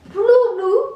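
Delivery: laughing. Real, not acted. Laughing over her own mispronunciation.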